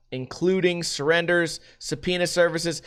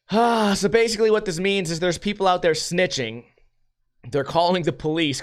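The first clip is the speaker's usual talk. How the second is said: ordinary talk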